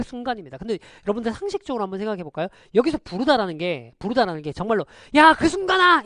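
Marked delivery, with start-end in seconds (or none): 5.1-6.0 loud, high-pitched calling-out; 큰 소리로 부르기. Acted. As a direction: call out loudly, as if hailing someone. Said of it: "이렇게 큰 소리로 부르는". (큰 소리로 외쳐 부르듯)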